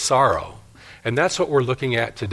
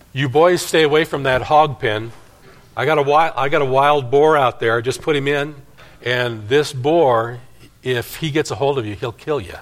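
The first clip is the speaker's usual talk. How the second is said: lightly voiced stern dad, raised pitch; father's warning; 3 semitones higher than usual. Dad warns his boys off the hog pen, cautioning. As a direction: warn the boys with firm emphasis.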